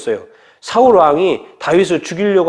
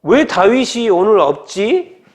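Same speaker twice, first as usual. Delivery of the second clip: puzzled question; 4 semitones higher, much slower than usual. Retold or imitated. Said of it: "왕이 물어보는 거예요".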